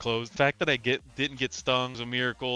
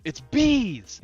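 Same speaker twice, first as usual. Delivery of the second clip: high, loud alarm call; warning the guys about the swarm, shouted high; 10 semitones higher, 5 dB louder than usual. Retold or imitated. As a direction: sound the alarm, sudden and sharp.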